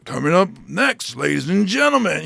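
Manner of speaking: smooth club DJ hype; strip club announcer. Acted. Comic wishing for that voice, strip club announcer. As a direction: introduce the next act like a strip club DJ. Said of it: "I wish I had the strip club voice".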